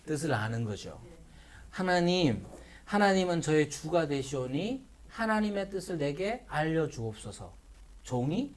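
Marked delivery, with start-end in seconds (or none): 1.7-8.5 acted humble prayer, voice sinking lower; demonstrated prayer, softening toward the end; obedient prayer. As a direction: pray submissively, like a servant before the master. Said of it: "하는 태도가 신앙생활이라".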